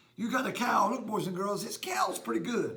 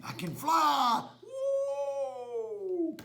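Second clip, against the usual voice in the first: a higher, excited cry; excited flying kid; 7 semitones higher, much slower than usual. Acted. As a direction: whoop as if taking off. Wannabe flapping wings showing off.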